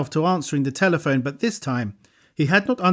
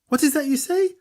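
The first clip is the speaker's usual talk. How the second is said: sharp; 11 semitones higher than usual. A narrator's reading. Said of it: "asked the voice sharply".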